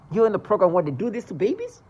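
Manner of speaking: rising, loud furious accusation; lashing out at a mother she despises; furious outburst. Real, not acted. Ranting at mothers in the program, loud and furious.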